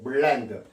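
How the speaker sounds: 블렌드 with a clear touched L; near-native L. Shown as a demonstration. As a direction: say "블렌드" as b-llend, tongue to the gums. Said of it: "거의 정확한 원어민에 가까운 발음인데".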